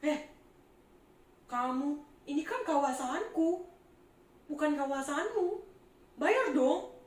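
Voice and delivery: imitating Zakius angry. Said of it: "Zakius marah-marah".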